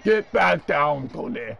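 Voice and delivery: slow, drawn-out monster command; lightly voiced puppet monster, stretching each word; Cookie Monster. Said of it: "I can't keep doing Cookie Monster's voice".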